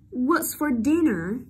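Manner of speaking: slow "What's for dinner?" aimed downward on "dinner"; careful teacher's model, dropping on "dinner"; falling intonation. Shown as a demonstration. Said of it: "Xuống giọng". (đọc chậm, xuống giọng ở "dinner")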